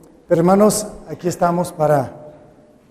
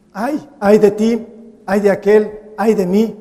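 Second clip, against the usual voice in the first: lament; 4 dB louder than usual. Shown as a demonstration. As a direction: wail each ay like a grieving sigh. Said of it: "lo pronunciamos por ahí y decimos".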